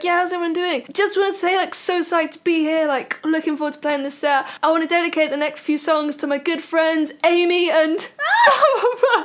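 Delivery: lightly voiced performer greeting a crowd; a musician on stage. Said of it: "he got on stage, he was like".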